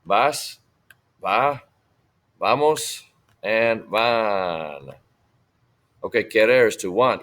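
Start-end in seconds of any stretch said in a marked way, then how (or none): 0.1-4.9 lifted, separated verb forms; model for repetition. Shown as a demonstration. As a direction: recite a conjugation drill, pausing after each. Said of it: "Repitan, voy".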